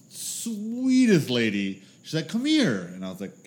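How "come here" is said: friend's mom beckoning. Retold or imitated.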